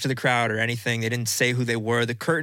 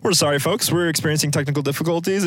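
mock announcer apology; 2 semitones higher, 3 dB louder than usual. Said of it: "and they're like".

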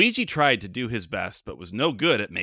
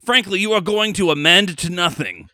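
director dressing down an actor, loud and cutting; a harsh casting director, sharply raised; stern director; 4 semitones higher, 4 dB louder than usual. Acted. Director rejecting Luigi's audition, in a stern mock voice. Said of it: "role of the director here".

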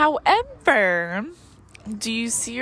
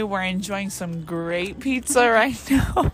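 chewing while talking; mouth full. Real, not acted. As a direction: talk through a bite of pizza. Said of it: "hear me chewing in the background".

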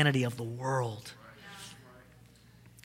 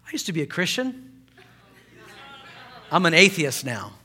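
hushed confession. Retold or imitated. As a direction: drop it in a hush like a secret. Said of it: "He just drops the bomb".

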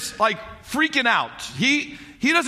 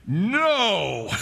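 God's voice. Retold or imitated. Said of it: "God's voice, like".

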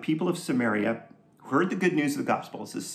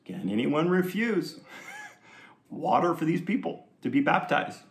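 lightly put-on Jewish accent; 3 semitones higher than usual. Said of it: "It's my Jewish accent".

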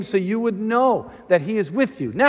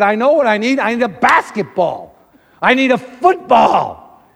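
put-on demanding kid; 6 dB louder than usual. Retold child's demand.

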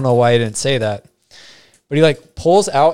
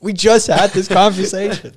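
high, disbelieving protest; can't believe it's happening again; incredulous; 9 semitones higher, 4 dB louder than usual. Retold or imitated. Incredulous inner retort.

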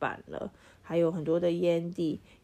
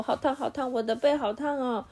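hot, hot; 7 semitones higher than usual. Acted. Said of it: "他大叫说".

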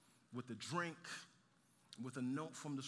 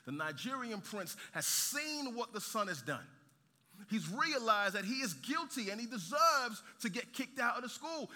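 raised, emphatic sermon delivery; impassioned preaching; 5 semitones higher, 4 dB louder than usual. Real, not acted. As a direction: press the appeal home to the congregation. Preaching the story's point.

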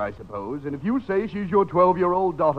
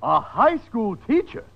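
incredulous question; 3 semitones higher than usual. Acted. Echoes the revelation in disbelief.

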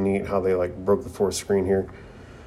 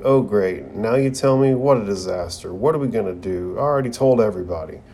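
panicked; faster than usual. Retold or imitated. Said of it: "immediately panics".

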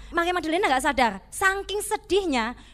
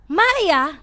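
"Maria" called out louder and firm; firm wake-up call; 6 dB louder than usual. Shown as a demonstration. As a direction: call "Maria" sharply to snap her out of it. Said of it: "tapi mungkin dia berkata tidak gini".

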